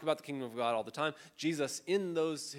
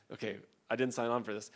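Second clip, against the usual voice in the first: mock complaint; 3 semitones lower, faster than usual. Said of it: "me being an upset Orange County person".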